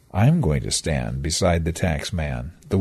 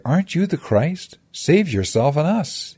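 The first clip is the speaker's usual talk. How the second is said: higher pitched, taunting cry; a mocking, raised exclamation; exclaimed; 9 semitones higher than usual. A narrator's reading. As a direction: jeer it up at him from the cross. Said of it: "he exclaimed".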